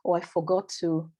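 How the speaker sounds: usual speaking voice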